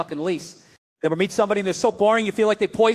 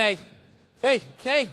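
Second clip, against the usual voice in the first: raised, spaced-out mock gun sound; imitated gun noise; 4 semitones higher than usual. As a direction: imitate a faulty gun with a repeated cry. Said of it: "the one that went".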